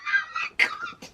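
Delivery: very high, strained laughing wail; half laugh, half sob of exasperation; laugh-cry disbelief. Real, not acted. Exasperated breakdown.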